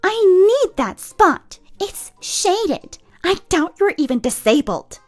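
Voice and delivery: loud, high mock accusing yell; entitled woman yelling. A woman accusing a mother of stealing a placard, yelling. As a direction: play the rude woman accusing her.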